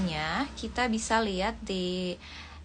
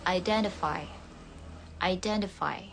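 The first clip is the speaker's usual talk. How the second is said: American accent; 2 semitones lower than usual. Shown as a demonstration. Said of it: "T-nya berbunyi mirip D".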